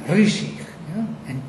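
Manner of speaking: "Rishich" stressed on its second syllable. Shown as a demonstration. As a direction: put the weight on the end of "Rishich". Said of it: "stress falls on the second syllable".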